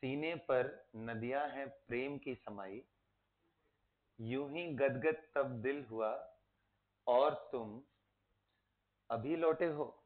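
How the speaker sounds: soft, sing-song memory rhyme; soft chanted mnemonic; mnemonic recited softly. Shown as a demonstration. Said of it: "देखो ऐसे है".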